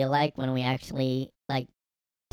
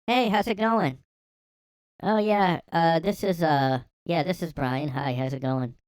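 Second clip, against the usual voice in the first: short guy voice; 4 semitones higher, 3 dB louder than usual. Pretend.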